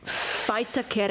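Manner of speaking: Faitake opening on an F sound; Faitake, first consonant turned into F. Shown as a demonstration. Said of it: "W is actually pronounced as an F".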